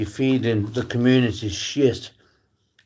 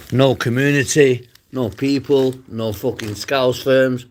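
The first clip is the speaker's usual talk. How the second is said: defiant shout; 3 semitones higher, 4 dB louder than usual. Real, not acted. Defiant rant at livestream critics.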